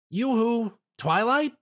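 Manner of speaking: calling out. Acted. Spike calls distracted Twilight.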